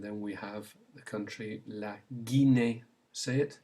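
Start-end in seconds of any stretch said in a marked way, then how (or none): 1.7-2.8 "La Guinea" as French Guinée, ghee-NAY; French pronunciation. Shown as a demonstration. Teacher gives learners a country to repeat, French pronunciation. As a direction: model "La Guinea" with hard g and final ay. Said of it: "to get the g sound with the E".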